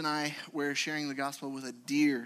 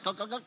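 gulping sounds; 5 semitones higher, much faster than usual. Shown as a demonstration. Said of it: "It's not like".

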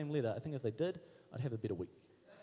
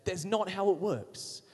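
blunt rebuke; 3 semitones higher, slower than usual. Retold or imitated. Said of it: "whack me around the head and say".

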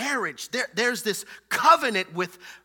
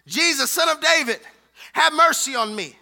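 raised, forceful cry for mercy; hollered plea; 5 semitones higher, 6 dB louder than usual. Acted. Preacher replays the blind man calling Jesus, hollering. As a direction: holler it out loud and high. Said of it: "He hollers".

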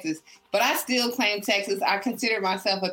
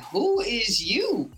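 self quote; 3 semitones higher, much slower than usual. Retold or imitated. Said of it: "I remember being like".

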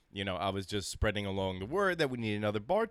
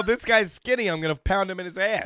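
tough guy voice; 6 semitones higher, 4 dB louder than usual. Pretend. Quoting prison bullies.

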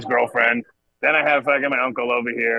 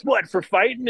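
hopeful high grandpa question; grandfather's voice; 8 semitones higher than usual. Retold or imitated. Grandfather hopes his grandson was fighting, mock high voice. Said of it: "my grandfather goes".

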